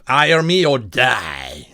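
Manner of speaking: slow threat. Acted. Assassin threat voiced slowly.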